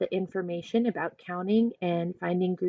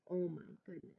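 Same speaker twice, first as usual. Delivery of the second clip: plain reading voice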